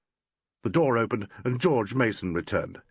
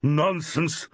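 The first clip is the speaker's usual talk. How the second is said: loudly; 8 semitones higher than usual. A narrator's reading. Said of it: "said old Susan very loudly".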